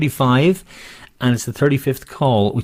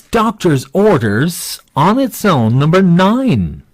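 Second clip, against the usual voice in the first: slow sing-song bingo call, higher and louder; bingo caller; 6 semitones higher, 5 dB louder, much slower than usual. Acted. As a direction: drawl out the call like a bingo hall. Bingo call sung out slowly.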